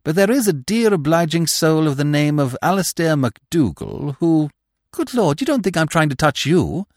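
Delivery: put-on an anxious young toff pleading for help; Freddy's voice.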